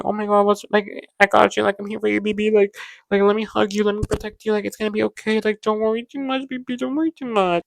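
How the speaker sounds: sweet comforting. Retold or imitated. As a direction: soothe a worried partner gently. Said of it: "so sweet and, like, comforting".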